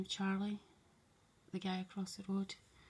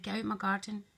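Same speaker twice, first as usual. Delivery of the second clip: louder shooing commands, building; retold shouting; 5 dB louder than usual. Shooing the neighbour's dog away, loud building commands. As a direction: chase the dog out, voice rising. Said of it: "I said".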